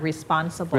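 slow "responsible" with "riss" at the front; starts like wrist. Shown as a demonstration. Teacher confirming the corrected word, careful model pronunciation. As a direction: say "responsible" as riss-PON-sible. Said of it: "เหมือน wrist ข้อมือน่ะ".

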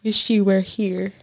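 mocking. Friend mocks the text.

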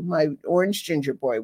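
normal talking voice

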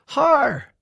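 high, very loud cry of a name; scream. A narrator's reading. Woe shoots upright on waking, screaming. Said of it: "He shot upright and screamed".

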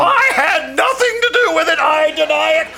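hasty denial. Acted. Agent hastily denying involvement.

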